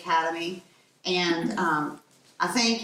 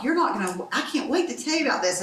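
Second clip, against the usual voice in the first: excited teacher text; 6 semitones higher, much faster than usual. Retold or imitated. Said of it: "it's like".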